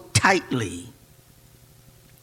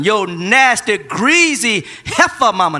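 hint of a trash-talker, louder; sling the insult playfully; mock insult; 4 semitones higher, 5 dB louder, slower than usual. Preacher imitating a trash-talker, mock loud. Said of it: "when they say".

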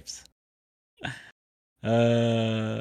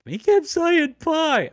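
high mock voice; 5 dB louder, slower than usual. Imitating kid saying pie.

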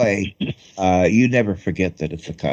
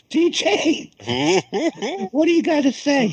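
excited. Real, not acted. Handing over, still excited.

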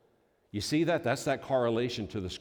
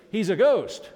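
frightened cry; 11 semitones higher, 10 dB louder, slower than usual. Retold or imitated. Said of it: "they even projected onto Jesus".

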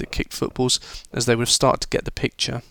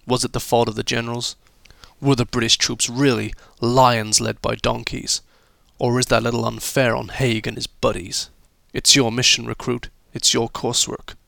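put-on American accent. Teacher briefing pupils on their coursework mission, put-on American accent. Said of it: "American accent there".

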